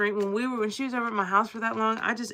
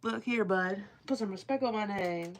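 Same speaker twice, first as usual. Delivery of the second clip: mock rapper quote. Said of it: "I'll be like".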